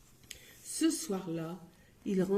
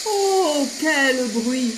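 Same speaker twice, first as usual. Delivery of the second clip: exclaiming; 5 semitones higher, 9 dB louder, much slower than usual. A narrator's reading. Narrator exclaims at the noise.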